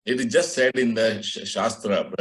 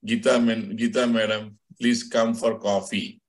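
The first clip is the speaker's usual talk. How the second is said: polite invitation. Shown as a demonstration. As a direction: ask her kindly to come for coffee. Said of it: "But by the time it goes to your ear".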